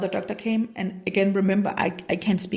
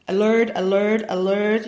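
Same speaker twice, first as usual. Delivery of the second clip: louder alarm call; inner alarm; 6 dB louder than usual. Retold or imitated. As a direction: sound it like a warning siren inside. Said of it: "my intuition was like".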